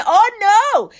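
put-on high whine like a two-year-old; mock the flesh whining like a toddler; whiny toddler. Flesh screaming like a two-year-old, whiny. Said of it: "acting like a two-year-old".

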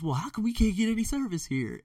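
high-pitched mock complaint; agitated Al. Joking with the waitress at lunch, mock agitated. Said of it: "he was so agitated with something".

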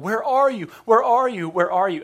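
put-on loud, high calling for a lost child; panicked parent calling. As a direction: call out as if searching frantically. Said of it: "we're just freaking out, running around going".

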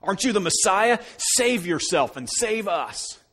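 hurled insults. Acted. Criminal on the cross hurling insults at Jesus, loud slow taunt. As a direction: sneer it up at the cross, slowly. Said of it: "hurled insults at him".

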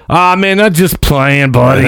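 lightly voiced nervous seller; seller backing off. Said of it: "And he's like".

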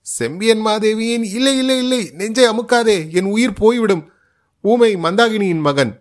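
high-pitched terrified pleading; panicked pleading. Acted. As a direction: beg for your life as your chest is crushed. Captive pleading while chest is pressed.

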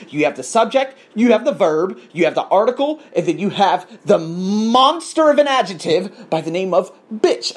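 rising teacher-like list; mock grammar lesson. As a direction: lecture it like a teacher. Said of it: "mock grammar lesson".

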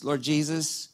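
soft, quiet demo prayer; quiet humble prayer spoken aside; hushed prayer. Shown as a demonstration. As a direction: pray it gently and low. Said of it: "maybe we should pray a prayer, something like this".

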